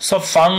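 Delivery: সফ ফাং ending in a nasal "ng"; সফ ফাং with ghunnah. Shown as a demonstration. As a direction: hum the end of সফ ফাং. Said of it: "ফাং বললাম কারণ পরে সদ আছে".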